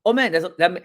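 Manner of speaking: sounding excited. Acted. Agent reacting to a prospect's no, excited. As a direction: start an enthusiastic reply, then break off. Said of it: "can you guys please sound excited".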